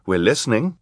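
kindly. A narrator's reading. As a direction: reassure nervous witnesses they have an audience. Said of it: "Justice Strauss said kindly".

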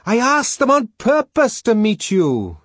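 high, loud shouted explanation; shouting to be heard through a door; top-of-voice persuasion. A narrator's reading. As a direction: plead at the top of your voice. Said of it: "at the top of one's voice".

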